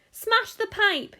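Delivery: high, loud, drawn-out demand; yelled order. A narrator's reading. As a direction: yell frantically for action. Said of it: "yelled Missus Gloop".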